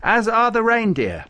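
high, loud eager burst; excited. A narrator's reading. Farouk adding the reindeer to the gift, excited. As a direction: jump in excitedly, pitched right up. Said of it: "said Farouk excitedly".

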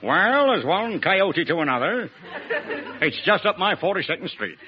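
mock-American slang patter; lightly hammed-up American accent; Bob Hope. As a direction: put on a comic American drawl. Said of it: "my impersonation of Bob Hope talking English".

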